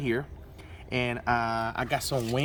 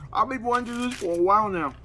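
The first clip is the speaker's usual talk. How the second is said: excited; 7 semitones higher, faster than usual. Real, not acted. Delighted the oven works.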